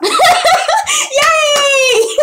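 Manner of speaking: high squealed cheer through laughter; laughing cheer. Real, not acted. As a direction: squeal it out while cracking up.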